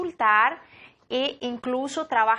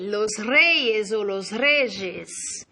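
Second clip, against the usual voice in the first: los reyes said slowly and clearly; slow model word; 3 semitones lower, much slower than usual. Shown as a demonstration. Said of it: "El rey". ("los reyes" dicho despacio)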